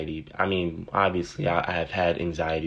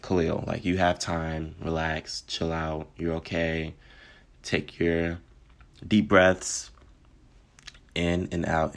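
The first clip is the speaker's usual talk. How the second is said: soft, calm and reassuring; soothing self-talk; 2 semitones lower, 4 dB quieter, slower than usual. Retold or imitated. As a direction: talk yourself down gently. Calming herself through anxiety.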